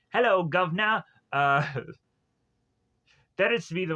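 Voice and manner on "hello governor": hammed-up British greeting; British accent. Character bizarrely turns into a British guy, British accent. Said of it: "turns into this British guy".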